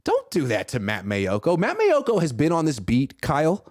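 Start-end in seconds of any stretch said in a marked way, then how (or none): 3.2-3.7 high, slow, stern rebuke; indignant scolding. Real, not acted. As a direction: drag it out like a scolding. Scolding the coach.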